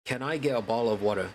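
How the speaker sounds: understated everyday British accent; matter-of-fact British English delivery. Shown as a demonstration. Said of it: "speak in a British accent".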